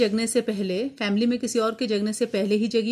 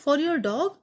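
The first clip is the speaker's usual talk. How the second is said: surprised question; 5 semitones higher, much slower than usual. Retold or imitated. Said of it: "एकदम surprise में पूछा उन्होंने".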